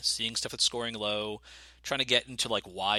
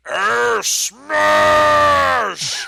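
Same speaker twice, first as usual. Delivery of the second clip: loud, high roaring ogre bellow; ogre shout; 14 semitones higher, 14 dB louder than usual. Shown as a demonstration. DM shows the hosts his ogre voice, roaring. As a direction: bellow it like a brute charging in. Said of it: "so if it's an ogre".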